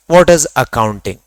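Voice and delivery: spelled out slowly for notes; dictating pace, each word separate; slow dictation. Shown as a demonstration. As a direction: say it word by word so they can write it down. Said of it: "दोनों शब्द लिख रहा हूं".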